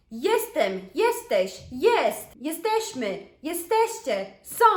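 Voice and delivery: rattled off in one breath like a poem; quick recitation. Shown as a demonstration. Teacher to students, reciting the verb at target speed. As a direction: run the whole conjugation together at speed. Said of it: "that's the speed I want you".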